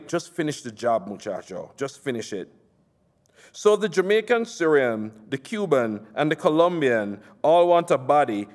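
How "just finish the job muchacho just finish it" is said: lower, softer, menacing calm; a quiet order from the boss; Doctor Love, low and quiet. Retold or imitated. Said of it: "Doctor Love said to me".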